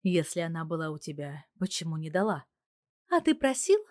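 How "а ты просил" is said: higher, louder, a sly little jab; sly wife. A narrator's reading. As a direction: tease him with a knowing question. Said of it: "И так лукаво смотрит на меня". (лукавый женский голос)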